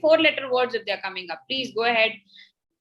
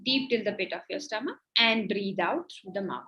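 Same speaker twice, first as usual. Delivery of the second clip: guided breathing meditation. Acted. Guides breathing and closed eyes.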